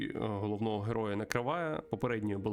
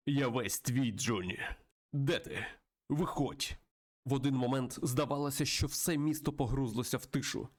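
lightly dramatized game story read-aloud; story narration. Acted. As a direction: narrate the tale with a touch of drama. (виразне читання історії)

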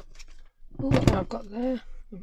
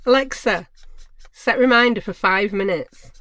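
louder, clear command to the speaker; 7 dB louder than usual. Real, not acted. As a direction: call out to Alexa over the room.

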